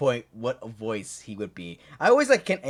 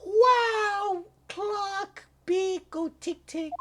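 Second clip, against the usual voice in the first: mock dazed clock-watchers; much slower than usual. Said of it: "They were like".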